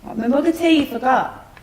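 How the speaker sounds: high-pitched whining reminder; high whiny complaint. Acted. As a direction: whine it up high. Mother repeats complaint higher.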